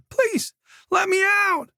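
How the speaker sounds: high, slow, drawn-out plea; high pleading call; calling through the door. A narrator's reading. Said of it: "Colette called through the door".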